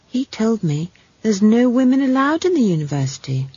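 a hint of an indignant child; lightly voiced earnest girl. Esk protests to Granny.

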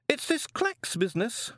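high put-on elderly wizard voice; fussy old wizard. A narrator's reading. Chair of indefinite studies grumbles to colleagues, high old-wizard voice. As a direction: play a doddery old don. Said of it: "said the chair of indefinite studies".

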